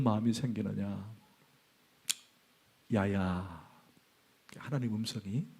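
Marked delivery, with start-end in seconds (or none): 2.9-3.7 Gyeongsang dialect. Retold or imitated. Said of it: "경상도 사투리로".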